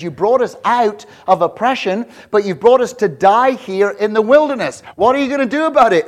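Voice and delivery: building from loud to a fast, high shout; rising panicked outcry at the leader; crowd screaming at Moses. Acted. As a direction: people yelling at Moses in fear. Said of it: "Everybody's screaming at Moses".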